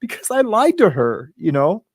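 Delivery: real choked-up confession; fighting back real tears while confessing; on the verge of crying. Real, not acted. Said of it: "I'm gonna start crying about it".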